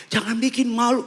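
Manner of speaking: high-pitched urgent telling-off; retold flustered dad scolding; embarrassed father's plea. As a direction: beg the screaming child to behave. Embarrassed father hushing screaming child.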